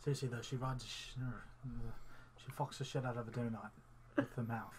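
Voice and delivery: a light put-on British accent, low and soft. Friend slipping into British accent while gossiping, lightly put on. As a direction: drop into a casual British accent mid-story. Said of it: "Why are you doing a British accent".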